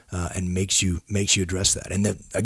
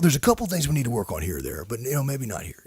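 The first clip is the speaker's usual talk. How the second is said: false cheerleading; 2 semitones higher, 3 dB quieter than usual. Retold or imitated. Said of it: "That's the false cheerleading".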